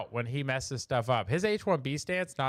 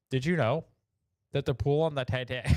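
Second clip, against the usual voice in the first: laughing. Real, not acted. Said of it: "I just can't".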